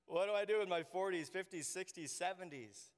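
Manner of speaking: panicked question, loud and high at first; mock panic. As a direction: act out a worried retiree. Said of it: "And you're like".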